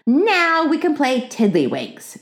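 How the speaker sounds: put-on high, slow child's announcement; little girl proclaiming a game; announcing. A narrator's reading. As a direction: announce it expectantly, drawn out. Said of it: "she announced".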